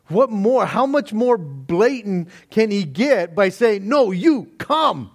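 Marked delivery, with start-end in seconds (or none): 3.9-5.1 higher, slow, emphatic "No, you come"; emphatic invitation. Retold or imitated. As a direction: stretch out "No, you come" as an insistent call. Preacher voices the king's blatant invitation.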